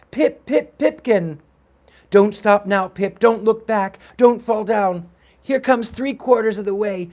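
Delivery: high, loud chant from the sidelines; rally the runner with punched short calls; urgent cheering. Acted. Boys urge Pip through the gauntlet, shouting.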